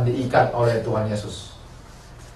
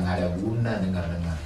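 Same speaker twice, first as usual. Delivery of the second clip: low, quick mocking devil; devil's taunt; 8 semitones lower, 8 dB quieter, faster than usual. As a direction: sneer it low and fast like the devil. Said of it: "Setan bilang". (ejekan setan, rendah dan cepat)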